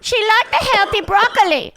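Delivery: high mock Asian accent, "broccoli" said as "pɹɑkəli" with a p; mock Asian accent, high-pitched; imitating Asian mom. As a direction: nag about the healthy broccoli in the high accent voice. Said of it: "would do this bit about how her mom".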